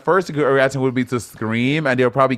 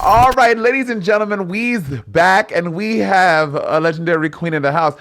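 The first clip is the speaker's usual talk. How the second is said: higher, lively announcer delivery; show host intro; 3 semitones higher than usual. Pretend. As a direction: welcome the audience back like an emcee.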